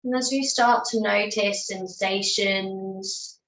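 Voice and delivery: measured breath count, each number set apart by pauses; unhurried, evenly paced meditation guidance; guided meditation. Real, not acted. Yoga teacher counts listeners through their breaths, guided meditation.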